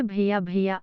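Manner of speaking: भैया with ऐ said as a diphthong before य; careful demo word. Shown as a demonstration. Teacher models भैया for learners, careful demo. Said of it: "संयुक्त स्वर ऐ के रूप में".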